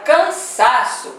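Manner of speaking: cansaço split up, with weight on SA; stressed SA drawn out. Shown as a demonstration. Teacher marking the penultimate syllable, stressed SA in cansaço. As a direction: lean on the SA in cansaço. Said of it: "eu vou descobrir chamando".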